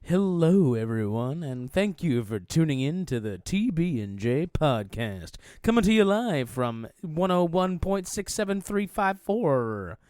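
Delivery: mock radio DJ intro; lightly voiced radio host. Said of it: "like, a radio voice".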